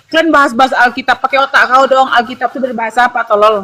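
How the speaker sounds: snide contemptuous jab; mocking insult. Opponent sneering at Bible readers, contemptuous. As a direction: sneer the question at them. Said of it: "dia bilang".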